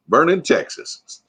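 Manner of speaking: a light mock Texas accent; Texas drawl. Shown as a demonstration. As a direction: drawl "Vernon, Texas" out slowly in a playful Texas accent. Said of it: "Let me hear your best Texas accent".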